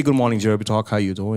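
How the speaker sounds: lightly affected American accent; put-on American accent. Shown as a demonstration. Guest showing the host how an accent is pasted on, put-on American accent. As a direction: slip into a borrowed American accent. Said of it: "let me tell you, we can bandika".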